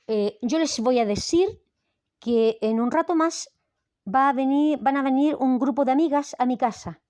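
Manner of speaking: Chilean putting on a Spain-style accent with lisped S; mock Castilian lisp on every S; imitating a Spaniard's pronunciation; fake Spanish accent. Shown as a demonstration. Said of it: "hablar así no me da prestigio".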